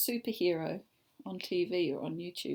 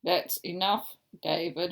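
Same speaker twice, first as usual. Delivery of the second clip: stern; 4 semitones lower, 5 dB louder than usual. Acted. Mum scolding in book.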